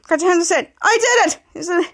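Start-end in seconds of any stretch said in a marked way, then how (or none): 0.8-1.4 high, pleased announcement; acted triumph. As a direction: celebrate as the character. Retold character triumphs.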